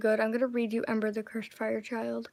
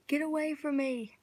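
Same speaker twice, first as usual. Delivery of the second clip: yelling; 5 semitones higher than usual. Acted. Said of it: "I mean to yell, but it comes out as a whisper".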